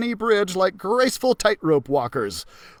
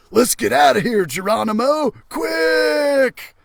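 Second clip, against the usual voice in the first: urgent shout; 6 semitones higher than usual. Acted. Trap urges escape, shouting.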